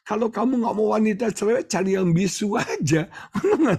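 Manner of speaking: high, fast, laughing punchline; laughing joke. Real, not acted. Preacher joking to the congregation, laughing high and fast. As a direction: crack up at your own joke.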